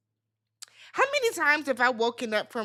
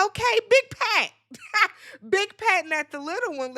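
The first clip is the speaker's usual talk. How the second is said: teasing with a laugh; 8 semitones higher than usual. Retold or imitated. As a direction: hail him like a big shot, then crack up. Teasing the boasting husband.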